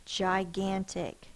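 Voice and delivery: Gigantic blended slowly, jy-gan-tic, falling at the end; slow blended word. Shown as a demonstration. Teacher blending the sounded-out Gigantic for pupils. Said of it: "Let's sound it out".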